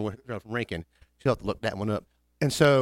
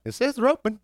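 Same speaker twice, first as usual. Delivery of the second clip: put-on sweet girl; 10 semitones higher than usual. Phone girl quoted.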